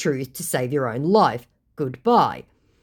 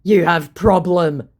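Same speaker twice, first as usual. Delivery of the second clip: louder, slow put-on scammer voice; mock the idiot's broken English; hammed-up scammer jab; 3 semitones higher, 7 dB louder, slower than usual. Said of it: "the idiot goes".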